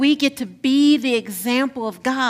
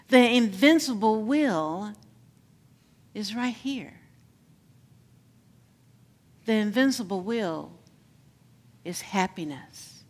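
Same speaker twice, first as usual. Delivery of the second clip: preaching litany. Acted.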